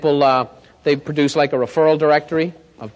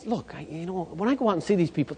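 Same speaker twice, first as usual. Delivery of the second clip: Don's reluctant mumble; 9 dB quieter than usual. Retold or imitated. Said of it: "He goes".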